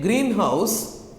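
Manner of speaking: greenhouse with "green" stressed. Shown as a demonstration. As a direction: hit the first syllable of greenhouse. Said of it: "you stress on the black".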